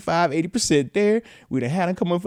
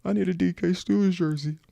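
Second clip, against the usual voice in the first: son whispering; 5 dB quieter than usual. Retold or imitated. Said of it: "then he was like".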